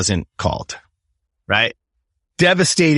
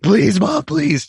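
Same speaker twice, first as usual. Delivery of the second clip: put-on whiny kid plea; 10 semitones higher, much slower than usual. Kid whining to mom, imitated.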